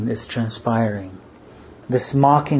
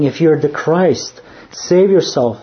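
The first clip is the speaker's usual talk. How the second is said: raised, louder jeering challenge; mocking taunt; 3 semitones higher, 4 dB louder than usual. The criminal jeering at Jesus on the cross, louder and scornful. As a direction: sneer it up at him like a taunt. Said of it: "blasphemed him".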